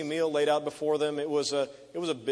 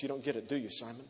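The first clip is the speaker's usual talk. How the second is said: softer, gently pressing the question; soft rebuke; 5 dB quieter, faster than usual. Acted. Jesus gently pressing Simon the host, softly. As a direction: drop to a quiet, searching tone.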